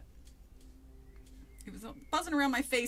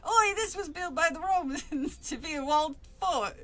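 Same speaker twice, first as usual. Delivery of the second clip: put-on Cockney accent; 5 semitones higher than usual. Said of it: "how Marsland talks to Trap".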